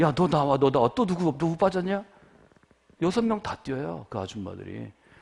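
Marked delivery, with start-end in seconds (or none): 0.0-2.0 overexcited coach voice, too worked up to get words out. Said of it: "너무 흥분해가지고 얘기도 못해요".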